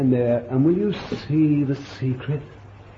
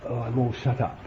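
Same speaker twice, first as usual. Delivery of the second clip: whining complaint; 2 semitones lower, 7 dB quieter than usual. Retold or imitated. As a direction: moan about being mistreated. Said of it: "He didn't say".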